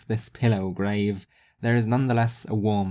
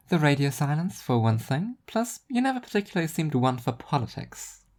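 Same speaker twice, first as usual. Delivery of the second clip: higher, dry self-mocking voice; Rhea, wry and higher; 6 semitones higher than usual. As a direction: shrug off the hate with dry humour. Rhea replies.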